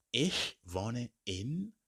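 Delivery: ich wohne in drawn out slowly with a rise; slow teacher demo; slow model phrase. Shown as a demonstration. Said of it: "I simply answer by saying".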